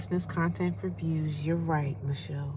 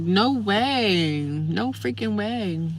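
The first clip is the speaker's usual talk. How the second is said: disbelief; much slower than usual. Real, not acted. Disbelief at the snow.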